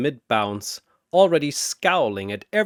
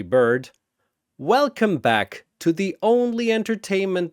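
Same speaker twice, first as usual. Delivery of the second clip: arena announcer. Acted. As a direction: work the crowd like a ringmaster. Host welcomes the arena crowd.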